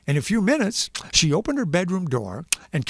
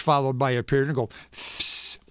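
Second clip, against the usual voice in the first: punctuation sound effect; 4 semitones lower than usual. Shown as a demonstration. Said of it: "exclamation point would be".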